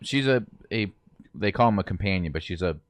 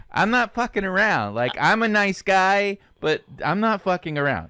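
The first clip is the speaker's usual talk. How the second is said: tough-guy threat; 10 semitones higher than usual. Retold or imitated. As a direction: play the nice guy with a threat underneath. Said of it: "Where he's like".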